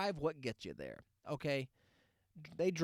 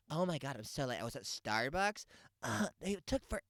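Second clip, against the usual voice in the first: much higher, breathless mock mom; mocking a frazzled mom chattering, much higher; gushing mom chatter; 7 semitones higher than usual. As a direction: babble like a late frazzled cheer mom. Acting out the mom's chatter.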